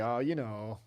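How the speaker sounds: put-on a little North Dakota accent; touch of a northern Midwest accent; lightly imitated near-Canadian accent; slight regional accent. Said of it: "it was, like, a little".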